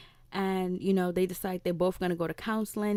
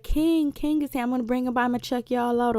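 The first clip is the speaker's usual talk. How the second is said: higher, louder, proud announcement; higher, louder, proud new father announcing his son; excited new dad; 4 semitones higher, 4 dB louder than usual. Retold or imitated. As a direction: brag about the new baby. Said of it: "He's all excited".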